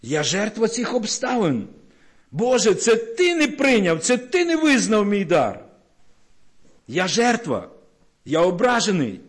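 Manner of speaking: lightly voiced Cain accusing God; Cain's complaint. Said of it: "І Каїн кричить".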